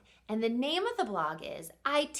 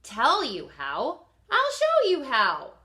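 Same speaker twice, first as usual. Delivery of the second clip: louder, higher playful dad with a teasing build; dad's voice; 4 semitones higher, 8 dB louder, slower than usual. Acted. Narrator as the boy's dad teasing him, loud and playful. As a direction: make him a grinning dad who knows a secret. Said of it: "he said".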